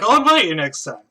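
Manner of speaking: put-on loud, high drunken-friend voice; Lucius. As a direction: call out an invitation, high and loud. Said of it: "And Lucius is like".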